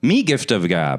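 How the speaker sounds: caveman voice. Pretend. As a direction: grunt it like a caveman. Caveman talk bit.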